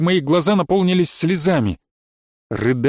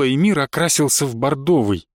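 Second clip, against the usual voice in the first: ordinary delivery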